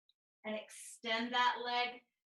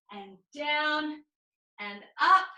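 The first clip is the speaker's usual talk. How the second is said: encouraging push; 3 semitones higher, 7 dB louder, slower than usual. Real, not acted. Teacher counting last push-up.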